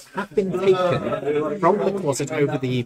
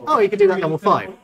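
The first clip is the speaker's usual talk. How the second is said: mock dismissive; 4 semitones higher, 7 dB louder, faster than usual. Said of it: "But if it was like".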